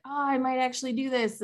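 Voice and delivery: retold hopeful thought, pitched high; mildly excited. Shooter thinking to self on the last round, a little excited. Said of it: "I think I got a little excited".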